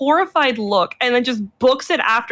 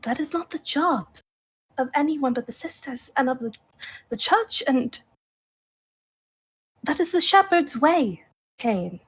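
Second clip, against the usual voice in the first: quiet stern rebuke; 6 dB quieter than usual. Acted.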